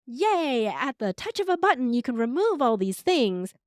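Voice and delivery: hammed-up sales-pitch enthusiasm; mock excitement. AI tool selling its one-button fix, mock excited. Voicing cheerleading AI tools in mock quote.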